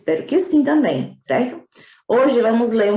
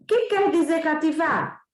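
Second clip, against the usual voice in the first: put-on higher, slow puzzled boy voice; little prince; 5 semitones higher than usual. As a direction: ask slowly, wondering as a child. (menino curioso, voz aguda e lenta)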